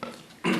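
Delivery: harsh clearing of a sore throat. Real, not acted. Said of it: "Sore throat tonight".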